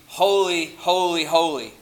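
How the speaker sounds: "holy, holy, holy" in evenly stressed beats; emphasis by repetition. Shown as a demonstration. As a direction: lean on each "holy" in turn. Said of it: "repeat the word you are trying to emphasize".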